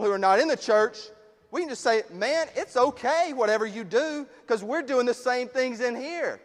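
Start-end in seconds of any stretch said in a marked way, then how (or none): 2.1-6.4 higher, breezy mock reassurance; acted easygoing churchgoer; mock permissive. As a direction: wave it off as no problem. Voicing an overly permissive church.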